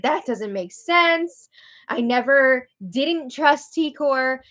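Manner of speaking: mildly upset protest, drawn out slowly; slow, insistent mock protest; imitating upset. Angela protests to Quinn, mildly upset imitation. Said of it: "she starts to get upset here".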